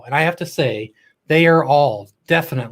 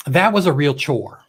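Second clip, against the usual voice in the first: dry, sarcastic complaint; a mock grumble about a great time. Real, not acted. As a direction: say it deadpan, meaning the opposite. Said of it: "you heard my sarcasm correctly".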